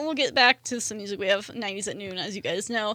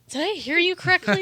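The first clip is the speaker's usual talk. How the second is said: put-on shocked older person; 7 semitones higher than usual. Older generation shocked by slang.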